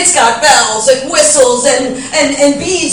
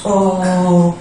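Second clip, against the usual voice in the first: mock innocent woman; 4 semitones higher than usual. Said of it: "And I'm like".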